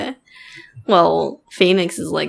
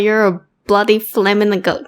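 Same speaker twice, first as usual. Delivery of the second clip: attempted Aussie accent; 4 semitones higher, 4 dB louder than usual. Shown as a demonstration. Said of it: "I can't say it".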